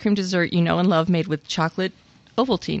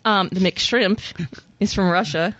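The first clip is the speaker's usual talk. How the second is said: playful Irish accent on a menu item. Shown as a demonstration. Co-host reading the menu item in a mock Irish accent. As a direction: lilt it like an Irish local. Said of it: "I said that with an Irish accent".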